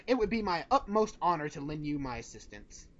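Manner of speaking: bold heroic voice. Acted. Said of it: "in your most heroic voice".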